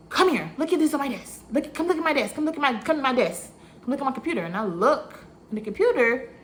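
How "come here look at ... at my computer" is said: urgent beckoning. Retold or imitated. Boss urging her to his desk.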